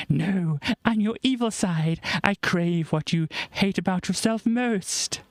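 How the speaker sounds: high, slow sinister alien; alien orb voice. Acted. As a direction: play the evil side, drawn out. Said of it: "Fly says".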